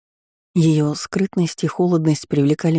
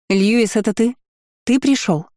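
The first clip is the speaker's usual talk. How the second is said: higher-pitched, searching questions; calling out; 8 semitones higher than usual. A narrator's reading. Countess looking around for Lewis, calling out. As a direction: call out hopefully, pitch lifted. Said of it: "звала она кого-то, смотря по сторонам".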